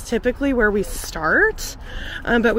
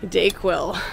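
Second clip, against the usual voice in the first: stuffy nose; blocked nose from a cold; congested; 3 semitones lower than usual. Real, not acted. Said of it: "as you can probably hear, I'm a bit congested".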